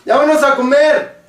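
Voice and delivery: quick everyday call to the table, words run together as "ya vamos a comer"; casual local speech. Shown as a demonstration. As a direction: blur "ya vamos a comer" into one lazy stream, sounds dropped. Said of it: "y de pronto alguien dice".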